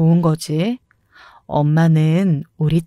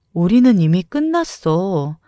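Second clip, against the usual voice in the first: ordinary delivery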